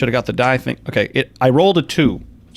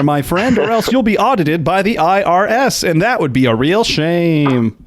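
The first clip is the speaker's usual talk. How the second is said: infomercial pitch; 4 semitones higher than usual. Pretend.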